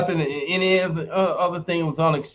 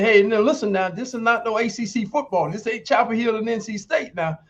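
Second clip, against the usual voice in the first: coach's warning; 6 semitones higher than usual. Retold or imitated. Coach warning in retold story.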